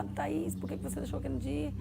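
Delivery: soft, hushed imitation of a crying brother; retold crying call. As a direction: quietly mimic his tearful question. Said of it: "ele ligou já chorando". (imitação contida de choro ao telefone)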